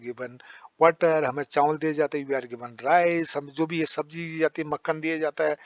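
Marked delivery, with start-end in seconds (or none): 2.3-3.4 very slow, word by word for the class; slow classroom dictation. Shown as a demonstration. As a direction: spell it out slowly for students to copy. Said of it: "ऐसे बोलते रहो".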